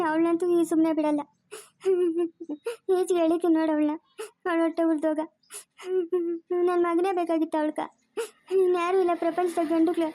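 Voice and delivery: sobbing while vowing revenge; tearful threats. Acted. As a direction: curse her through your tears. Weeping mother threatens the girl she blames. (ಅಳುತ್ತಾ ಶಪಿಸುವಂತೆ)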